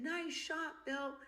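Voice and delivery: flirty tone. Retold or imitated. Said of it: "something about the way she said".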